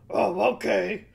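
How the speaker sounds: lightly voiced small goat, agreeable; a hint of a meek little goat. A narrator's reading. Little goat agrees with the troll, lightly voiced. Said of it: "said the billy goat".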